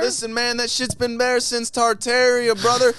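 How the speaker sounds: high, loud, hyped-up conspiracy preacher; conspiracy guru voice. Pretend. Ranting to his podcast friends about Tartaria, high and loud. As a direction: sell the secret history like a street prophet, leaning on every word.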